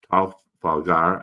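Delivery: swollen mouth, words come out thick. Real, not acted. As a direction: struggle to shape the word through a swollen mouth. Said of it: "I'm not saying that right".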